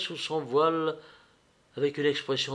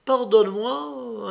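interrupting; 9 semitones higher, 4 dB louder, slower than usual. A narrator's reading. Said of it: "interrompit Vronsky".

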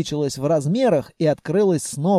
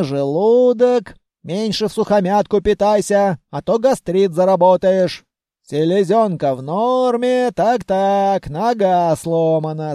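put-on raised, scolding old granny voice; scolding grandmother. Grandmother scolding Vanya after the explosion, raised. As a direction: hug and scold in one breath.

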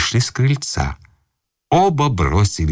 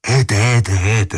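excited yelling; 8 semitones higher than usual. Acted. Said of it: "Что вы орёте?".

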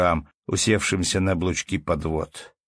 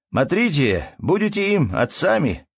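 raised, pleading call; 9 semitones higher, 3 dB louder than usual. A narrator's reading. Ermolai begs the villagers to look after his boys, raised call. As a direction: shout the charge to the crowd. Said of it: "закричал снова Ермолай".

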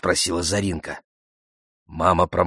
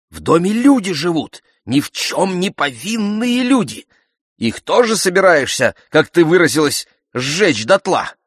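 high, raised, outraged reproach; indignant; 10 semitones higher, 4 dB louder than usual. A narrator's reading. Mother rebukes daughter over burning the house, indignantly. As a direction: protest loudly in a high voice. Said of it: "возмутилась мама".

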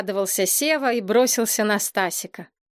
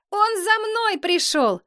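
joyful; 12 semitones higher than usual. A narrator's reading. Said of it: "возликовал Стасик".

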